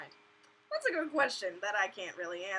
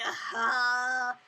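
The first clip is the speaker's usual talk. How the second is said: shocked aha; 6 dB louder than usual. Retold or imitated. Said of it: "I was like".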